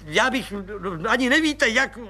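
overjoyed, calling out to his wife; jubilant colonel. Acted. Colonel thanking the agent, jubilant and gushing. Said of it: "hlaholil plukovník".

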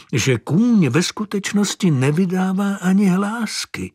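plain reading voice

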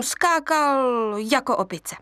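ordinary delivery

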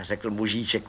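usual speaking voice

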